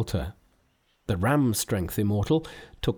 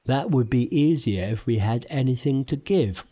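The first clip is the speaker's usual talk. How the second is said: lightly voiced grumbling pig; Pigsy doubts Monkey's plan, lightly voiced; Pigsy whispering. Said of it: "whispered Pigsy".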